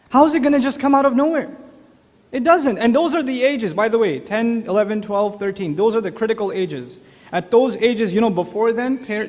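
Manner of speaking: usual speaking voice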